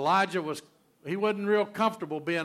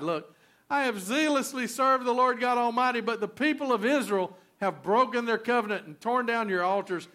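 loud self-pitying complaint, pitched up; pity party; 7 semitones higher, 5 dB louder than usual. Acted. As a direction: whine it out like a sulking martyr. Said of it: "He was throwing a pity party".

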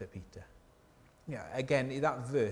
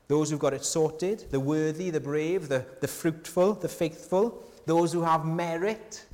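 mock admiring list; 4 semitones higher, 5 dB louder than usual. Ironic list of the worthy.

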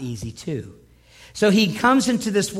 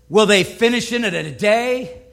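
a scornful taunt, louder; mocking; 3 semitones higher, 5 dB louder than usual. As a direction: sneer the question at the builders. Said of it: "Kind of like mocking".

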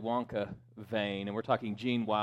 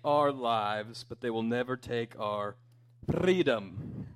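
slow, louder stirring battle speech; William Wallace speech; 3 semitones higher, 4 dB louder, slower than usual. Retold or imitated. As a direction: build to the final freedom like Braveheart. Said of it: "And then William Wallace says".

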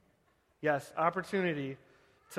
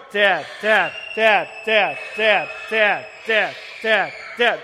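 put-on loud, nagging kid demanding; whiny kid; 3 semitones higher, 9 dB louder, slower than usual. Pastor voices his kids pestering, loud whiny nagging. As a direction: pester dad over and over. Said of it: "someone pulling on your leg saying".

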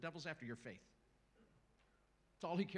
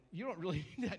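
laughing conscience; 2 semitones higher, 5 dB louder, faster than usual. Shown as a demonstration. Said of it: "the conscience is starting to go".

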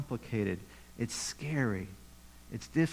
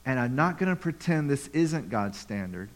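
voicing Jesus and James. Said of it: "They're saying".

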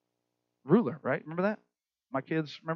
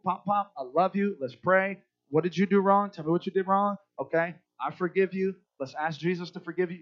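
gentle loving parent. Retold or imitated. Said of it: "in private and under control".

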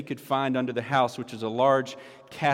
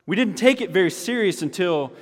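put-on country accent; 5 semitones higher than usual. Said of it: "I was trying to do the country accent".

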